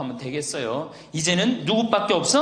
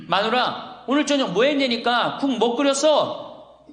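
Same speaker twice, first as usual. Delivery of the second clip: raised, higher-pitched mock husband's call; imitated impatient husband; insistent calling out; 6 semitones higher than usual. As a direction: call to the wife, losing patience. Husband asks wife again from living room.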